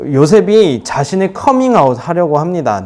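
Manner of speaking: normal talking voice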